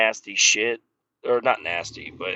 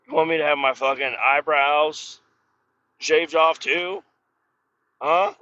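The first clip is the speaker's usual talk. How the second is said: higher-pitched, indignant retort; incredulous; 4 semitones higher, 3 dB louder than usual. Retold or imitated. Arguing with coworker over shaving rules, incredulous. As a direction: push back in disbelief, pitch climbing to the question.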